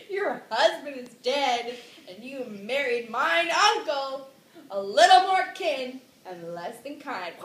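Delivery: mild theatrical reproach, leaning loud; mock accusation. Hamlet confronting mom about uncle, mild mock reproach. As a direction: declaim the grievance with some force.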